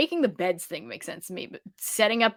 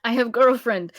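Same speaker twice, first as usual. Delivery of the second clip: caveman voice; 3 semitones higher, 6 dB louder than usual. Retold or imitated. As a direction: say it like a proud dim caveman. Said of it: "We're doing caveman voice".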